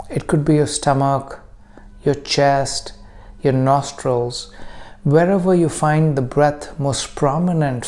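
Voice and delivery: calm meditation guide with long pauses; guided meditation. Acted. Teacher leading listeners into breath practice, calm guided meditation. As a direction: guide them gently, unhurried, leaving room to breathe.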